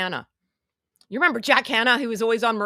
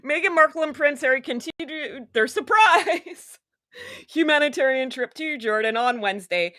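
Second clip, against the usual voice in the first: sarcastic reading; 4 semitones higher than usual. Shown as a demonstration. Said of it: "I'm gonna keep saying it like that".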